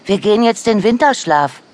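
very high, eager cub voice; high-pitched, thrilled announcement to a friend; excited little bear. A narrator's reading. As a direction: call out excitedly like a small child. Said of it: "rief der kleine Bär aufgeregt".

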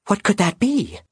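high, gentle raven voice, hopeful; a small bird trying to comfort, pitched high; loyal young raven. Acted. Raven Concord soothing his dying knight, high and gentle.

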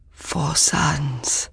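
breathless, gasped out in a whisper. A narrator's reading. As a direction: gasp the words, spent from the run. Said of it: "gasped the man".

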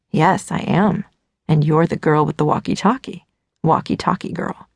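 low, lightly voiced cocky guy; teasing young man. Narrator voices Dean.

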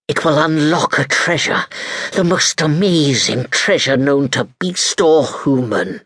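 lightly voiced sinister sea captain; pirate captain voice.

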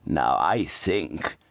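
low, slow, injured tone; father sighs over an injury; wounded martyr. A narrator's reading. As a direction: sound hurt but uncomplaining. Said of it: "suffered under injury without complaint".

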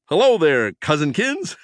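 high, squeaky prankster mouse; squeaky greeting. A narrator's reading. Prankster greets his busy cousin, high squeak. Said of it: "he squeaked".

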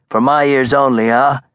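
mocking fat gangster voice; amused Brooklyn mobster. Marcosa again.

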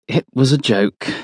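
a touch of resignation; sighing. A narrator's reading. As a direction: explain it with a touch of exasperation. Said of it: "Roy says with a sigh".

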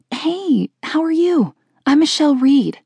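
put-on high, chirpy girl's greeting; friendly classmate. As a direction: introduce yourself in a high, sociable voice. Chirpy new classmate introduces herself.

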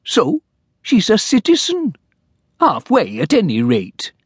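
high, fussy little clerk; timid clerk. Acted. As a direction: plead politely like a nervous clerk. Clerk character voice.

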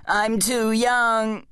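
very drawn-out high wail; mock scream. A narrator's reading. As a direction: stretch it into a high, self-pitying wail. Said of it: "screamed his bum".

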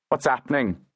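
put-on demanding in a Liverpool accent; gruff Liverpool accent demand. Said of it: "demanded in a Liverpool accent".

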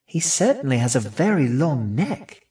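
high little rat voice; young rat's musing. A narrator's reading. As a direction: think aloud as a small, curious rat. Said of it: "she thought".

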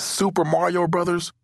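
high-pitched disbelieving question; incredulous question. A narrator's reading. Brandon sees the green pipes, incredulous question.

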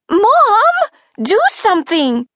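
high, loud panicked plea; totally freaked. A narrator's reading. Girl with a head full of snakes to her mom, freaked out. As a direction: beg your mother for help in a panic. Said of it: "Totally freaked".

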